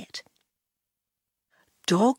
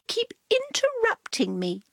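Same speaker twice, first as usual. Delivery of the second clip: high, dry sarcastic cat voice. Acted. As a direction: say it with weary sarcasm.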